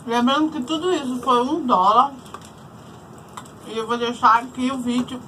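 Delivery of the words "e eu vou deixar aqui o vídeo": talking with mouth full; chewing while talking. Real, not acted. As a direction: say it through a mouthful of food. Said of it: "falando de boca cheia".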